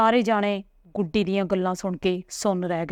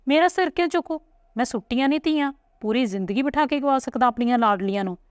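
much higher, emotional father pleading; impassioned protest; 5 semitones higher than usual. Acted. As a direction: rise up in fierce love for his daughter. (ਧੀ ਨੂੰ ਦਿਲਾਸਾ ਦਿੰਦਾ ਪਿਓ, ਉੱਚੀ ਜਜ਼ਬਾਤੀ ਆਵਾਜ਼)

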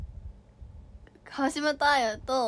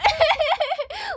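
giggle; 7 dB louder than usual. Real, not acted. Laughing at own attempt.

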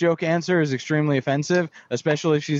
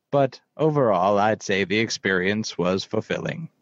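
lightly voiced, lower measured narrator; calm, unhurried storyteller in a lower voice; a hint of a deep wise narrator; Morgan Freeman voice; 4 semitones lower than usual. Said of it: "you want me to do my Morgan Freeman voice".

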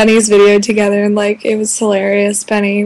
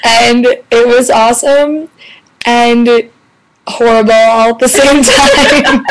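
raspy whisper. Real, not acted. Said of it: "before my voice is completely gone".

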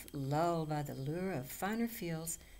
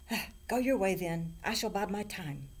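loud, higher troll dismissal; 3 semitones higher, 5 dB louder than usual. A narrator's reading. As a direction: wave them off like a grumpy troll. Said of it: "The troll thought again".

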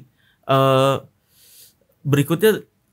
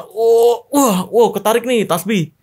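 imitating a faked gasp of wonder, pitched up; mock amazement; 4 semitones higher than usual. Retelling a fake relic pull to the host, mock amazement. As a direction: put on feigned surprise at a find. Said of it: "dia pura-pura".

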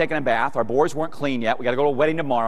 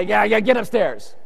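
slow, higher exasperated command; mock angry order; 7 semitones higher than usual. Wet dad shooing his smiling son, drawn-out mock anger. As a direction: drag out a comic dismissal. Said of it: "I'm angry. I'm mad".

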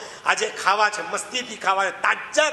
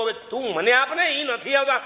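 Dasharath asking; 5 semitones higher than usual. Retold or imitated. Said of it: "Dasharath કીધું".

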